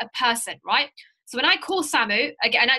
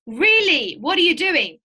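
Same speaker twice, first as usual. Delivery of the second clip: higher-pitched, surprised prospect's question; 4 semitones higher, 3 dB louder than usual. Acted. Prospect questioning a friend's new business, lightly acted surprise. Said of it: "this is where the questions will start".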